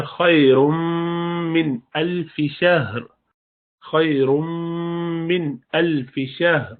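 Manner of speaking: من الف شہر drawn out, nasal merge; slow recitation with ghunna. Shown as a demonstration. Teacher reciting example: slow nasal merge. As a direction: chant خیر من الف شہر slowly. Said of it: "غنہ کی آواز آنی چاہیے".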